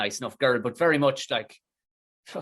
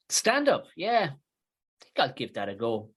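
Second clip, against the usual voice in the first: put-on bored girl; slower than usual. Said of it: "And she said it".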